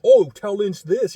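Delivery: slow, loud mock testy aside; imitating a testy owner. Owner brushing off the question, slow testy mock. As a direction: sneer it like an annoyed boss. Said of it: "He seemed pissed off".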